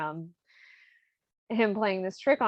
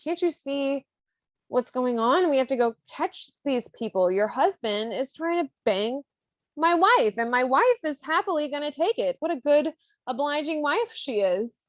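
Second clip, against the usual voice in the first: higher-pitched, hammed-up outrage; mock indignation; 5 semitones higher than usual. Figaro complains to Susanna about his wife, mock indignant. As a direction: rant as a mock-wronged husband.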